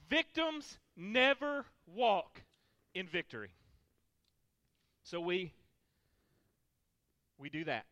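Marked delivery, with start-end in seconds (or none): 0.1-3.5 slow repeat. Shown as a demonstration. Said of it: "you can write this down".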